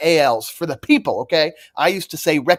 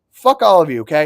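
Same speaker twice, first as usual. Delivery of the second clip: normal talking voice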